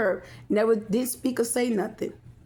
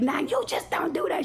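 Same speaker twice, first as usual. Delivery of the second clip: imitating auntie; 7 semitones higher than usual. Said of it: "she was like".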